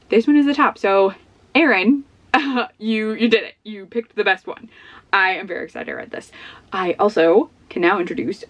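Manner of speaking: ordinary talk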